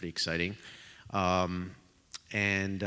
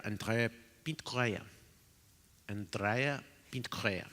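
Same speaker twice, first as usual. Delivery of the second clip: "Andrea Pinto Correa" in a light Portuguese accent; mock Portuguese accent; 3 semitones higher than usual. Shown as a demonstration. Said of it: "in my true Portuguese accent".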